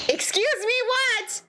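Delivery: high, incredulous question; exasperated disbelief. Acted. Player repeating a line in an endless loop, exasperated. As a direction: push the pitch up in disbelief.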